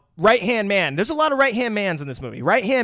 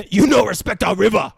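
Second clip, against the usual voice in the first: loud, indignant mock Asian accent; hammed-up Asian accent scolding; 3 semitones higher, 7 dB louder than usual. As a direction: join in with a parody Asian accent. Joins in the accented river scene.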